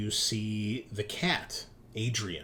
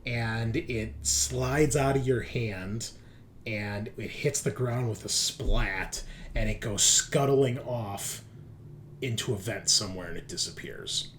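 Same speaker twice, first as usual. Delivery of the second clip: slow, suspenseful creature narration; game master's scene setting. Acted. Game master telling players the creature twitches to life, slow suspense. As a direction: draw out each twitch and slither slowly.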